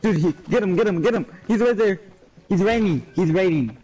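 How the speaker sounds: frantic, shouting "get him"; panicking gamer. Real, not acted. Enemy spotted mid-fight.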